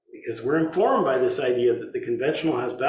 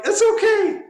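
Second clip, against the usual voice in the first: reassuring; 8 dB louder than usual. Retold or imitated. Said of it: "he'll be like".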